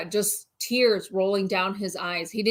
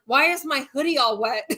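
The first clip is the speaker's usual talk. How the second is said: higher, puzzled whimpering question; groggy husband; 5 semitones higher than usual. Retold or imitated. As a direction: imitate a teary man confused about his wet hoodie. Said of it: "he'd be like".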